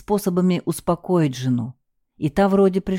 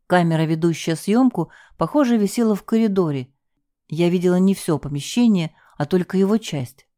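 ordinary delivery, nothing marked

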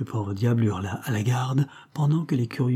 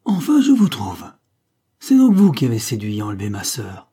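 angry accusation; 6 dB louder than usual. A narrator's reading. Fake brother accosting the captain in the street, indignant. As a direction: pounce on him with an indignant accusation.

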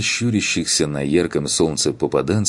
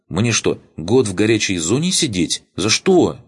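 put-on higher, eager teenage boy; nervous young recruit talking fast; 3 semitones higher than usual. Voices young boy Makar.

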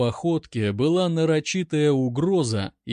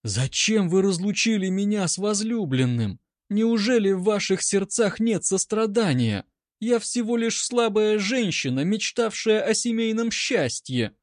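high, hammed-up plea of a weak woman; mock pleading bride; 7 semitones higher than usual. A narrator's reading. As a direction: wring out pity, melodramatically. Нина театрально молит красноармейцев. (высокая театральная мольба)

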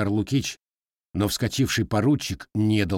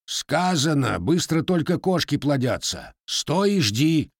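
firm, slow clipped-off final order; stern rebuke; 6 semitones higher than usual. Acted. Father cutting off the impatient boy, stern and slow. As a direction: put the boy in his place. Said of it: "жёстко осадил его Григорий".

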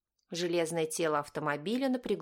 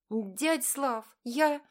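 put-on higher, rising tearful girl; 7 semitones higher, much slower than usual. A narrator's reading. A hint of crying as the girl apologises to uncle Slava. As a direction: quiver on the edge of tears. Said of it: "заговорила девчонка плачущим голосом".

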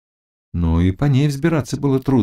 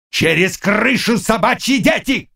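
Bogun shouting; 11 semitones higher than usual. A narrator's reading. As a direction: order the men through the roof. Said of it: "крикнул он". (криком Богуна)

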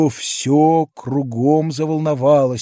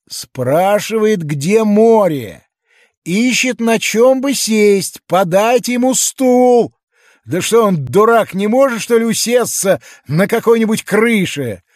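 higher, louder mocking townsfolk; jeering crowd; 7 semitones higher, 6 dB louder than usual. A narrator's reading. Crowd mocking the giant's words, higher and louder. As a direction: toss it off like a sneering onlooker.

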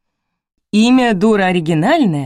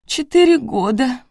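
higher, slow tearful answer; through tears; 8 semitones higher, 3 dB louder than usual. A narrator's reading. Mother answers the question about her son, through tears. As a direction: force the words out past the tears. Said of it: "сквозь слёзы ответила Ирина".

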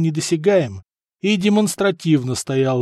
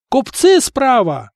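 high, drawn-out lookout cry; yelling; 9 semitones higher, 4 dB louder, slower than usual. A narrator's reading. Wounded sailor to crew, high slow yell. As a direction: call it out long and high. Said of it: "заорал раненый матрос".

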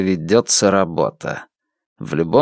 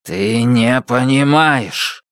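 desperate; 3 semitones higher, slower than usual. Acted. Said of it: "звенит отчаянием".

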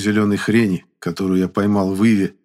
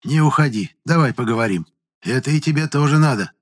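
higher-pitched, gently persuasive; mildly soothing persuasion; softer, calmer; 6 semitones higher than usual. A narrator's reading. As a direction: coax calmly to stay. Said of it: "уже более мягким и спокойным тоном".

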